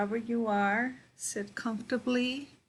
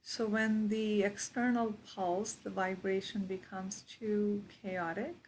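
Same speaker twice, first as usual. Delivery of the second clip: guided meditation. Real, not acted. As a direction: guide them into their breath, unhurried.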